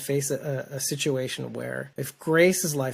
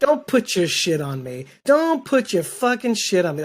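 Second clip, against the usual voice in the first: mock anger; 4 semitones higher than usual. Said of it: "Morgan was right to say".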